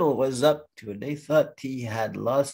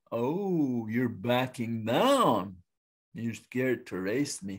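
slow, drawn-out teasing, getting softer; taunting turtle; 3 semitones lower, 3 dB quieter, slower than usual. Acted. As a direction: goad a rival into accepting a dare.

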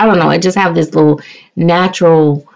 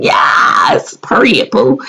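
sassy shout; 5 semitones higher, slower than usual. Acted. Sudden sassy outburst.

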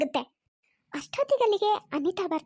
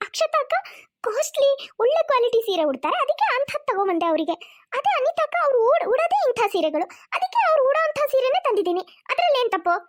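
defiant self-defence; 5 semitones higher than usual. Acted. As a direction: justify yourself, bristling. Daughter-in-law defends herself heatedly. (ಸಿಡುಕಿನ ಸಮರ್ಥನೆ)

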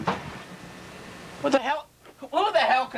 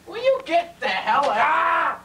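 angry yell; 5 semitones higher than usual. Acted. Yelling at intruders.

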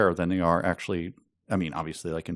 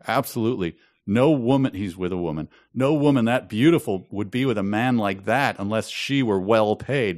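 put-on French Canadian accent; 2 semitones higher than usual. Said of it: "a couple of sentences later".

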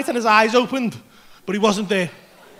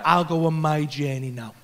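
quiet sign-off; 10 semitones lower, 8 dB quieter than usual. Retold or imitated. Acts out tripper announcing departure.

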